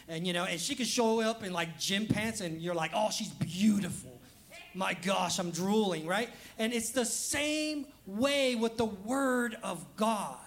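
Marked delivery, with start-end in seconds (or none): 2.9-6.1 smitten gushing. Retold or imitated. Voicing a smitten man.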